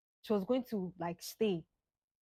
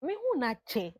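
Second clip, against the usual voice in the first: excited greeting; 11 semitones higher than usual. Retold or imitated. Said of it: "She saw me, I was like".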